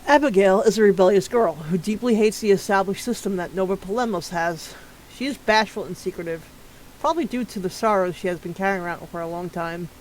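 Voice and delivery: steady read-aloud of a bio; profile read. Acted. Streamer reading a character's profile to chat, steady and even. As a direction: read the character sheet evenly.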